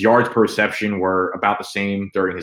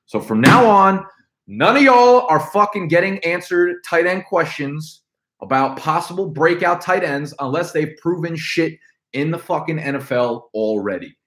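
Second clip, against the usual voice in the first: ranting; 8 semitones higher than usual. Real, not acted. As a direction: lay down the law, fired up. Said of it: "random topics that I just fucking rant about, like this".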